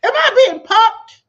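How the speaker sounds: loud, high and slow, stretched in disbelief; disbelieving. Real, not acted. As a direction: ask it like you cannot believe your ears. Disbelief at the story.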